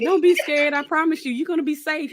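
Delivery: imitating a gentle reassurance; reassuring young man. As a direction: lightly play the sweet reassuring kid. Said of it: "They be s-, right".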